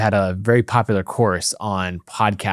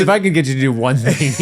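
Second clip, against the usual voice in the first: pitched-up pleading coworker; pleading developer friend voice; 3 semitones higher than usual. Retold or imitated. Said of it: "he'd be like".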